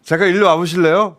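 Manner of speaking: put-on Korean with a light Korean-Chinese accent. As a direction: imitate the Joseonjok scam caller's accent. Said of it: "발음 조선족인데?".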